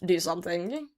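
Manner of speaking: half-whispered dread at grandma's sighting; hushed alarm. Retold or imitated. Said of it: "And I was like".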